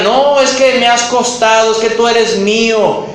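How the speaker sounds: mildly hammed-up guilt-tripping whine; mock reproachful claim. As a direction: play the clingy accuser demanding payback. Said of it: "que te reclamen porque digan".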